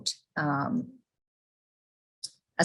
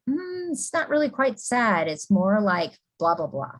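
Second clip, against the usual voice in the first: higher, hesitant client voice; client correcting; 3 semitones higher than usual. Retold or imitated. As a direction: play the client gently correcting you. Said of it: "they'll say".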